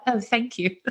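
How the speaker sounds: lightly coy reply to a compliment; coy thanks. Retold or imitated. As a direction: play it bashful and flattered. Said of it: "I'm like".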